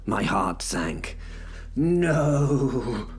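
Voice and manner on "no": higher, drawn-out cry of dismay; too-loud no. A narrator's reading. Narrator sees the Minotaur being provoked, too-loud dismayed voice. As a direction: let it out a little too loudly. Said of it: "a little more loudly than I should".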